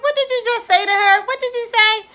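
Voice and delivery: retold angry challenge; indignant outburst. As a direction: fire it back as if confronting her.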